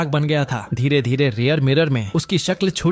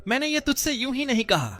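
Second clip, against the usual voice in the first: softly; 11 semitones higher, 5 dB quieter than usual. A narrator's reading. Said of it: "वो धीरे से बोला".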